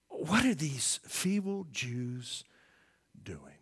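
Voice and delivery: a hint of a sneering villain, slow; contemptuous Sanballat. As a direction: mildly sneer it out. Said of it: "he speaks in a very contemptuous way".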